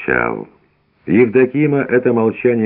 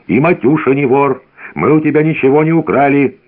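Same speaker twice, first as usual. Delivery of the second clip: shouting; 7 semitones higher than usual. A narrator's reading. An old man crying out to Evdokim. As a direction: cry out the family's innocence. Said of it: "крикнул".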